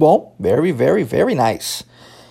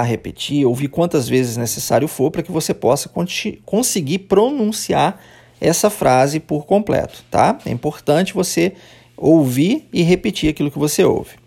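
normal talking voice

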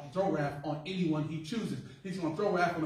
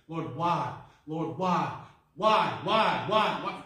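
crying why; 7 dB louder, much slower than usual. Acted. Job repeatedly asking why.

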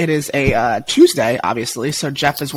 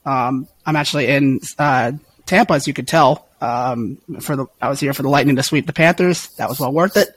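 hoarse voice. Real, not acted. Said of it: "I have lost my voice".

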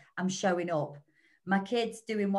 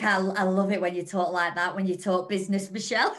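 mock swooning; 2 semitones lower, 4 dB louder than usual. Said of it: "She's like".

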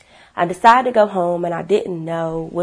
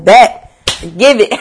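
mother's quick bet; 10 dB louder, slower than usual. Retold or imitated. Mother okays a twenty-dollar fee.

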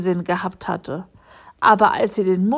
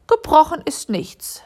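relieved; 7 semitones higher than usual. A narrator's reading. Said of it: "sagte sie erleichtert".

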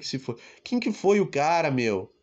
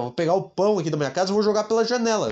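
ordinary talk, nothing marked

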